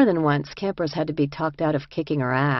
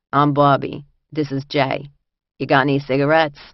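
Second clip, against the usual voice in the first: put-on light New York accent, louder; 5 dB louder than usual. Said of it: "Her heavy New York accent".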